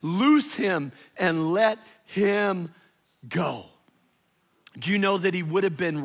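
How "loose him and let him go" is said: command. Acted. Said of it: "And Jesus said".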